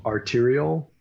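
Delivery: one word at a time, clearly separated; staccato. Shown as a demonstration. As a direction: say each word alone for the class to repeat. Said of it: "one word at a time".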